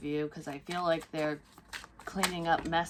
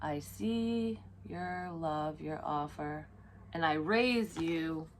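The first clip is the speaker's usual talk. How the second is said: drawn-out, slow and deliberate; mock card-table gravity; slow poker raise; much slower than usual. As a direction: lay it down like a poker bet. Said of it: "they're gonna offer this to you".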